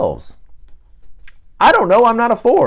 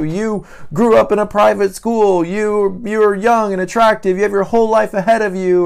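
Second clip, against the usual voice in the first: lecturing relative; 7 semitones higher than usual. Retold or imitated. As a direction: scold them into being thankful. Relatives lecture the sad four.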